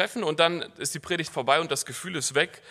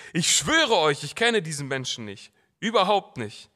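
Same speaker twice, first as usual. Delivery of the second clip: louder, defiant denial; Peter's oath; 5 dB louder than usual. Acted. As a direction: swear it off hotly. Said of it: "Da rief Petrus". (Petrus schwört laut und trotzig)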